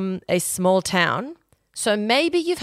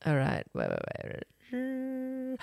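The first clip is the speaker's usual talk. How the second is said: distorted wait; 6 semitones higher, 13 dB quieter, much slower than usual. Real, not acted. Distorted voice effect.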